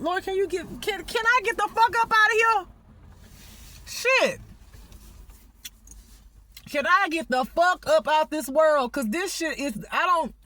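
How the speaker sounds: exasperated plea. Real, not acted. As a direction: cry out to be rescued. Crying out to the Lord.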